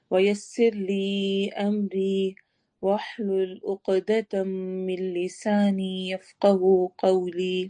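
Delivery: slow, measured Arabic supplication; slow prayer recitation. Acted. Teacher opening the class with a prayer, slow and measured. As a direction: recite each phrase deliberately, as in prayer.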